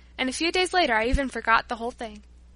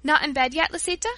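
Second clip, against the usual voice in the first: surprised; 3 semitones higher, 3 dB louder than usual. Acted. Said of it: "with surprise in her tone".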